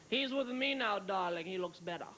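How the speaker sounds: lightly voiced, slow and poised supermodel; slow regal Iman. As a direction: turn slowly and purr it coolly. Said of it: "she turns slowly and says".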